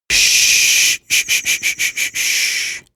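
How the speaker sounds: whispered shush, fading away; fading whispered shushes. A narrator's reading. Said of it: "Mister Van Buren shushed me".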